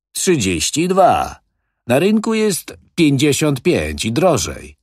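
sans impatience. A narrator's reading. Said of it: "bez zniecierpliwienia".

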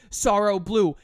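hammed-up move shout; dramatic attack call. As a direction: announce Sorrow Blue like a special move.

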